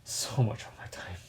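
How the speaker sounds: breathy whispered repeat; soft unvoiced aside; whispered echo. Shown as a demonstration. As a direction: whisper it back to yourself. Echoing own phrase, unvoiced.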